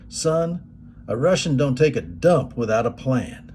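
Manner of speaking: light imitated Tennessee twang; a touch of Tennessee twang; Fred Dalton Thompson. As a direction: put on a folksy Tennessee drawl. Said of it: "in his Tennessee twang".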